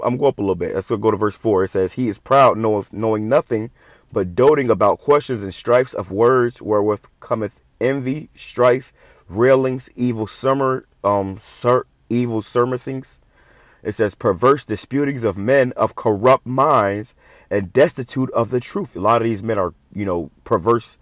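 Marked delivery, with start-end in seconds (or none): 1.9-13.2 slow, measured reading of the verse; scripture reading. Acted. Preacher reading First Timothy to his listeners, slow and measured. 14.1-18.9 slow, measured reading of the verse; scripture reading. Acted. Preacher reading First Timothy to his listeners, slow and measured.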